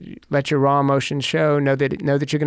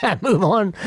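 laughing; 6 semitones higher than usual. Real, not acted. Laughs while ending own anecdote.

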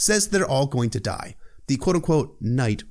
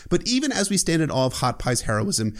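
ordinary delivery

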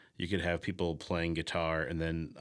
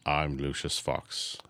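Lucius Fox impression; 4 semitones lower, slower than usual. Naming the Batman helper in a slow, low mock Morgan Freeman voice. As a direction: lower and slow, mock-grave Freeman-style line. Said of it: "Or Batman's helper".

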